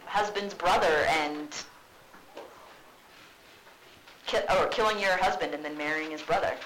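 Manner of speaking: loud mocking jab at mom; sarcastic Hamlet. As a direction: needle her with sarcasm. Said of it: "she's like".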